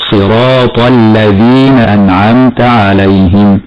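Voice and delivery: slow recitation, tongue tip out for ذ in "الذين"; interdental dhal. Shown as a demonstration. Teacher demonstrates the letter, interdental ذ in "الذين". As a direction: put the tongue tip between the teeth on ذ in "الذين". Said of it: "لا بد من إخراج طرف اللسان".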